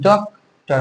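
"ডক্টর" broken into ডক and টর; a short gap inside "ডক্টর", after ডক; two beats for "ডক্টর", teaching the syllables; split into syllables. Shown as a demonstration. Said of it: "মানে দুইবারে".

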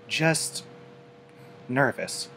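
small shy voice, barely there; soft. A narrator's reading. Fluttershy admitting her nerves to Applejack, soft. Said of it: "the Pegasus replied softly".

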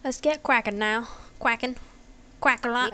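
silly mangled "cracking" turned into "quacking"; abandoned accent gone silly; being weird. Pretend. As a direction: play with the word, goofy and half-hearted. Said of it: "That's just me being weird".

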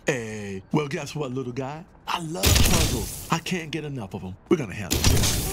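a cocky gun who loves puzzles; gruff eager gun. Acted. Gun tells the doctor it loves puzzles, gruff and eager.

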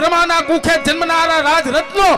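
solemn vow. Acted. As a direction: proclaim it like an oath. Babasaheb's vow voiced aloud.

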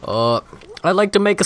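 mock a president giving a speech; Obama impression. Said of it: "that wasn't a good impression".

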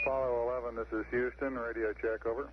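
faint, crackly radio call; calling through a weak radio link; weak radio signal. Real, not acted. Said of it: "we're copying you about, uh, five by two, very weak".

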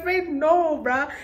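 high, loud disbelieving no; shocked refusal. Retold or imitated. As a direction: recoil at the very idea. Refusing friend's blackmail idea.

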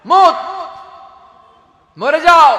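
death scream. Acted. Angel of death's fatal scream.

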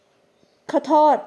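mildly curt apology. A narrator's reading. Young woman to a stranger she nearly bumped into, mildly curt. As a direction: say sorry a little abruptly. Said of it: "เอ่ยขึ้นด้วยเสียงห้วนๆ".

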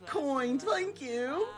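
hushed, hammed-up streamer thanks; Haughty Chicken. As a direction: draw out the thanks with mock sincerity. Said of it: "playing me".

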